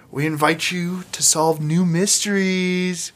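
slow, dramatic trailer narration; trailer announcer voice. Retold or imitated. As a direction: read it like a Netflix promo. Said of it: "Like Netflix says".

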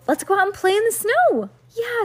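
high, loud and eager; excited cry. A narrator's reading. Girls want to play in the snow, excited cry. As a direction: pipe up high, raring to go.

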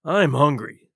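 gruff hungry complaint; growled. A narrator's reading. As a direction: growl it out, starving and sour. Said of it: "growled the captain".

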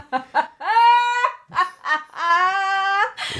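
high, loud, drawn-out cackle; helpless laughter. Real, not acted. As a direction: crack up at your own tongue-tied slip. Cracks up at own tongue-twister slip.

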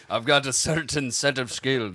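measured action-hero threat; Liam Neeson. Acted. Kidnapped girl's father warning her captors, mock menace. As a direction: put on a mock Irish tough guy. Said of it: "is this Liam Neeson?".

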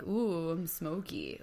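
slow, soft, wimpy monster; a puny spooky monster; weak monster voice. Retold or imitated. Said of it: "sounds like a really weak monster".

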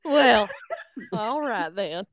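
hammed-up Southern drawl; Southern accent. Cohost starting the recap on request, put-on Southern accent. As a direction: ease into your most Southern accent. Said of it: "do it in your most Southern accent".

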